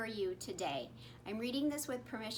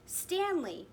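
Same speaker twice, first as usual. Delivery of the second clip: higher cheer; 6 semitones higher than usual. A narrator's reading. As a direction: cheer his name. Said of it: "his friends cheered".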